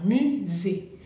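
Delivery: "musée" slowly, opening wide on the final é; drawn-out French "musée", open ending. Shown as a demonstration. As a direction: model "musée" as mu-zé, mouth well open. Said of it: "Abro bien la boca".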